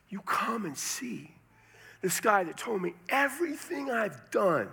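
acted amazement, beckoning others to come; urgent invitation. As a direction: voice the amazed woman, climbing in pitch. Acts out the woman urging townspeople.

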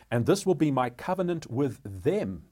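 weight placed on "them", set apart at the end; stress on them. Real, not acted. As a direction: read it out deliberately, landing firmly on "them". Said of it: "placing emphasis on those words".

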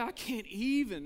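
mildly exasperated mock complaint; exasperated outburst. Preacher imitating somebody who's always overwhelmed, mildly exasperated. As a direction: voice someone who is lightly fed up. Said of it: "that's how they say it".

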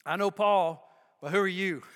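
preacher voices the evil spirit taunting the exorcists. Acted. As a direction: sneer it like a spirit that knows better. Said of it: "the evil spirit replied".

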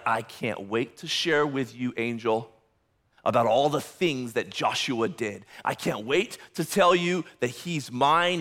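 lightly voiced Satan, hushed and eager; eager accuser. Satan gloating to the angel, hushed and eager. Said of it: "he's, like, at the edge of his seat".

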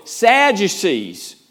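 Sadducees stretched out slowly, syllable by syllable; slow, deliberate Sadducees; drawn-out SADDUCEES. Shown as a demonstration. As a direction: draw out Sadducees to set up a pun. Setting up sad-you-see pun.

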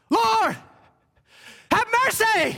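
high-pitched desperate yell, held short of full throat; crying out. Acted. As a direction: cry out to be heard over a crowd. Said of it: "And I can't yell full throat".

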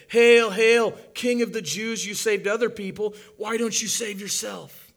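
loud, high, sneering taunt; a mocking crowd hurling insults at the cross; jeering mockery. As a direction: jeer at him like a cruel mob. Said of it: "they're gonna say".

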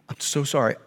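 put-on low, soft older lady's apology; meek apology. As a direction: imitate a meek, sorry driver. Older lady apologizing after the crash.

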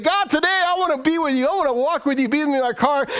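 high, urgent prayer pouring out; fervent pleading prayer. Shown as a demonstration. Preacher models waking prayer for congregation, fervent pleading. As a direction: plead with God, pitched well up.

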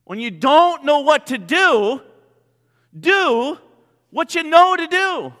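emphatic proclamation. Shown as a demonstration. Preacher booms the saying back to the congregation, emphatic. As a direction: preach it out so the whole room hears. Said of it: "write this down".

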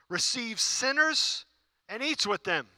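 high, slow, sneering grumble; mocking grumbling Pharisee. Preacher voicing the grumbling Pharisees with a slow, high sneer. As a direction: drag it out like a disgusted Pharisee. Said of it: "They're saying".

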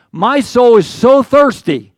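high, loud, slow plea; pleading lament. Acted. Pastor voices David begging God, high slow plea. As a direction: cry it out like a parched soul.

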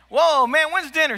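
playful high-voiced dodge; backpedaling. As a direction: cover the slip with a high, casual "whoa, man". Backpedals from "woman" to "whoa, man.

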